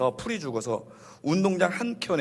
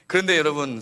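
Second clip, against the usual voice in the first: ordinary talk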